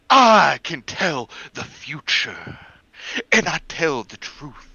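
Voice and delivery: dramatic reading. Shown as a demonstration. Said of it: "let me read this one".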